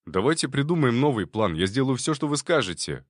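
eager, rushed plea; hurried. Acted. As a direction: rush the words out. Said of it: "торопливо добавил Ковалёв".

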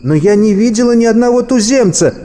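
high-pitched firm female protest; твёрдый ответ. A narrator's reading. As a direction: stand your ground, voice pitched well up. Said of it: "твёрдо ответила девушка". (твёрдое возражение высоким голосом)

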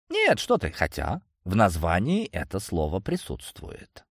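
coy and playful, slyly hinting; femme fatale. Acted. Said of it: "хитро ответила Виктория".

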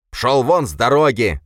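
high, loud shriek. A narrator's reading. Boris shrieking at the hero blocking his path, high and loud. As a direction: shriek him out of the way. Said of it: "завизжал Боря".

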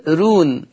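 رون with a light, thin r; thinned ra. Shown as a demonstration. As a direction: isolate رون and keep its ر light. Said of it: "يرقق ورش الراء". (رون براء مرققة)

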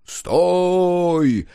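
loud, high ringing halt call; booming call. A narrator's reading. Foreman calling the convoy to halt, booming. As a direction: bellow it to stop the sled train. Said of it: "зычно возгласил старшой".

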